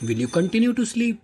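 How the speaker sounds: "continue" lifted high and drawn out; high, slow question. Shown as a demonstration. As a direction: ask the class in a high, slow teacher's voice. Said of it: "repeats question slowly".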